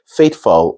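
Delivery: "faithful" with the u nearly swallowed; tamed U. Shown as a demonstration. Teacher showing the second pronunciation, reduced "faithful". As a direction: go straight from f to l in "faithful". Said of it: "It means the U is tame".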